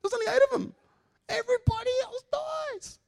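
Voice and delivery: put-on very high, loud Indian accent outburst. Coworker ranting about Noah's ark, Indian accent. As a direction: exclaim it in a pronounced Indian accent. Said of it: "With a very pronounced Indian accent".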